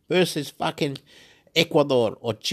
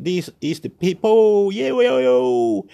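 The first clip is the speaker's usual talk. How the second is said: mock overjoyed; 3 semitones higher, 4 dB louder, slower than usual. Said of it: "my brain was saying".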